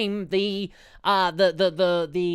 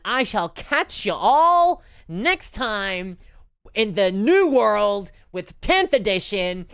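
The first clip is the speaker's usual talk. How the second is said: slow, louder, grand proclamation; dramatic announcer; 6 semitones higher, 5 dB louder, much slower than usual. Pretend. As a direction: boom it out like an epic trailer. Dramatic sign-off, slow and loud.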